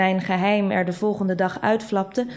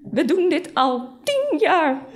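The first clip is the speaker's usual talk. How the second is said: high, slow, tearful reproach; acted hurt, voice climbing; near sobbing; 7 semitones higher, slower than usual. A narrator's reading. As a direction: stretch it out as tears take over. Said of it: "Ze begon te snikken".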